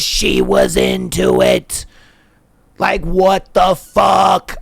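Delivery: slow, drawn-out shout of disbelief; incredulous outburst. Real, not acted. Incredulous rant about the cringy conversation.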